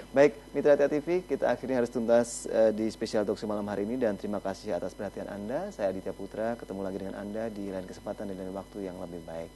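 evening talk show host signing off. Acted. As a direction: wrap up the show for viewers. Host closing sign-off.

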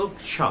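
क्ष as k run straight into sh; conjunct sound demo. Shown as a demonstration. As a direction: sound out क्ष as one joined cluster. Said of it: "संयुक्ताक्षर है". (क्ष में क और श जोड़कर)

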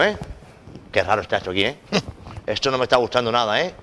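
put-on Galician accent, chatting alone; father musing about his son in a Galician accent; Galician Spanish accent. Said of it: "acento gallego ridículo ese". (acento gallego, hablando solo)

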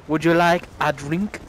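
lightly imitated Tipperary accent; a hint of a Tipperary barman. Imitating the barman offering a drink, light Tipperary accent. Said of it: "I think it was a Tipperary voice".

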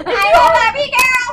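squeaky high helium voice; chipmunk-high voice. Real, not acted. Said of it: "my voice is so high".

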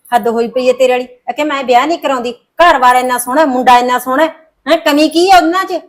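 loud, rising exasperation; mother scolding daughter over the match; exasperated scolding. Acted. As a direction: scold her for refusing.

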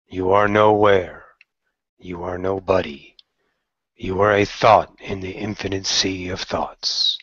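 slow, measured meditation voice; short phrases with spacious pauses, sinking at the ends; guided meditation. Acted. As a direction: guide the listener calmly inward.

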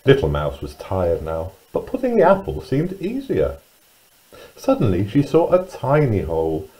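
put-on lively, singsong storyteller reading to young children; children's story narration. A narrator's reading. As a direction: read it with big pitch swoops on key words.

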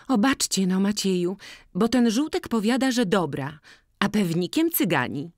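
put-on high, loud, bright-eyed girl complaining of the seller; lively village girl. Jagna asking Boryna to judge the cap, high and loud. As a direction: pitch it up and call out to Maciej.

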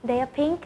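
"They are pink" ending up on "pink"; câu hỏi lên giọng ở "pink"; rising question tune. Shown as a demonstration. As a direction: raise the voice on "pink" to ask. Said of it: "các em sẽ lên giọng ở cuối câu".

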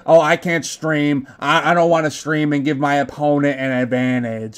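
lightly mock a player making excuses; slightly put-on generic gamer voice; generic complainer voice. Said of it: "that's, like, just any voice".

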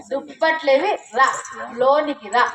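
దుప్పట్లేవి set apart from a falling రా; corrected phrasing. Shown as a demonstration. Daughter corrects him, దుప్పట్లేవి then a separate, falling రా. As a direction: pause after దుప్పట్లేవి, then a plain రా. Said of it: "కాదు మా".

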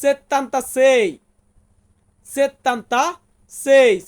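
slow, syllable by syllable; slow demo. Shown as a demonstration. Teacher sounds out an Italian number for students, slowly. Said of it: "Italian ভাষাতে বলবো".

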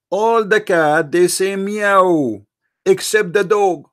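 slow, deliberate telling. Real, not acted. Spelling out the cat parable.

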